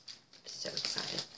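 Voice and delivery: whispered, slow thrill; excited whisper. Real, not acted. Telling viewers about her fabric, whispered excitement. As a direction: hush your joy into a slow whisper.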